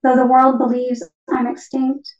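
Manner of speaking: measured poetry reading in short phrases; poem reading. Acted. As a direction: read it as a poem, pausing after each phrase. Reads own poem as the parakeet.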